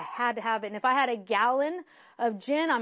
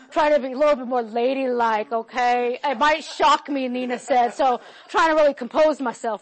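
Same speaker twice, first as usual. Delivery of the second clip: laughing; 8 dB louder than usual. Real, not acted. Joking about being recorded, laughing.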